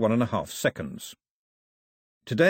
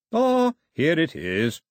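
very loudly; 6 semitones higher, 3 dB louder, much slower than usual. A narrator's reading. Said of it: "said the bishop very loudly".

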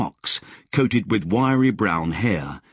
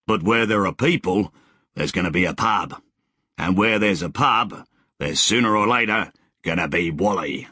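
put-on cheerful old settler. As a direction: play the friendly grizzled rider greeting a stranger. Wally's voice in dialogue.

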